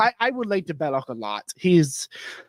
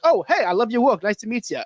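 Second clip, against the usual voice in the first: higher-pitched imitated hello; mock friendly greeting; 6 semitones higher than usual. Greeting the visiting author in a retold story, mock friendly. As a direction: act out an eager greeting, pitch lifted.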